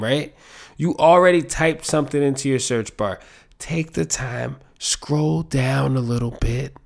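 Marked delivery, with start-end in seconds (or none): 3.6-6.8 put-on slow, patient, talking to a child; patient voice for kids. Shown as a demonstration. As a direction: spell it out slowly like to a little kid. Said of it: "my being patient with little kids voice".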